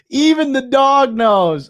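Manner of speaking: high, loud, slow cry out of a laugh. Real, not acted. Streamer cracking up at the knowing dog, loud laughing wail.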